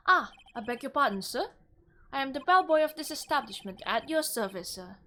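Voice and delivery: put-on a lightly done British accent for the bellboy. Bellboy introduces himself to the lawyer in a British accent. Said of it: "I'm gonna try a British, um, voice".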